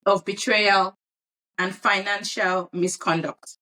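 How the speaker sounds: news anchor read; newscaster voice. Acted. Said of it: "why are you sounding like a newscaster".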